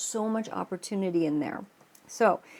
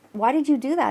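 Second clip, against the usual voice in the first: upset frog; 5 semitones higher, 5 dB louder than usual. Retold or imitated. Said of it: "And now".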